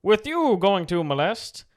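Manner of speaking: slow high Yoda voice; Yoda style. Acted. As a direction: talk backwards like Yoda, slowly. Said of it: "Yoda style".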